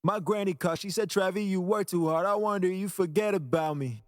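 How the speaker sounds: the polished take with full chain; after processing. Shown as a demonstration. Playing the vocal after the mix, processed vocal. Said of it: "And then after".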